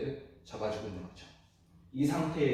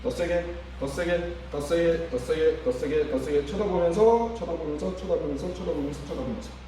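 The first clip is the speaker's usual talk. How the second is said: loud coaching cues; 2 semitones higher, 5 dB louder than usual. Shown as a demonstration. Therapist demonstrating to students how to push the patient, loud coaching. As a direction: drive the patient with firm calls. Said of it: "자, 해보도록 하겠습니다".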